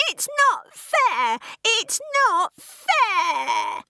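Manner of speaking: put-on high, loud, screaming teenager; shrieking rage. A narrator's reading. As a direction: shriek at everyone who is free. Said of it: "came back at her with a shriek".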